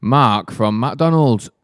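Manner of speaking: lightly voiced cookery-show host; a hint of Saturday-morning presenter; mock TV presenter. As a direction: introduce the guest with mock showbiz lift. Parody TV cookery show introduction.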